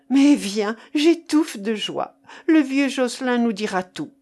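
excited, forceful urging; overjoyed urgency. Acted. Marcof, choking with joy, hurries Keinec out, overjoyed urgency. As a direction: hurry him along, bursting with joy.

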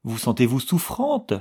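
a touch of a worried outcry; anxious cry. Acted. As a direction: rush to her worried. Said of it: "cria miss Estcourt".

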